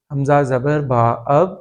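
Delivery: حمزہ زبر با اب with اب rising at the end; spelling demo. Shown as a demonstration. Teacher joining the first reading into اب. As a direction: land on اب with a rise. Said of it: "ایک مرتبہ".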